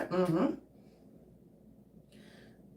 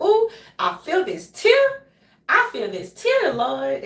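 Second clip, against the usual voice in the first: higher, louder mock-emotional outcry; re-enacted welling emotion; 6 semitones higher, 5 dB louder, slower than usual. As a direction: play up fighting back a tear. Re-enacts feeling tears come.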